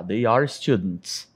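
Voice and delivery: "They are students" with "They" and "are" apart; full form, slow. Shown as a demonstration. Teacher shows the full form slowly before the contraction. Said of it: "Simplesmente eu poderia falar they're".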